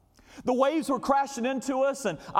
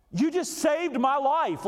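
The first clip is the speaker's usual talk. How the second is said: heartfelt thanks; 5 semitones higher, slower than usual. Retold or imitated. Thanking the rescuer, sung line.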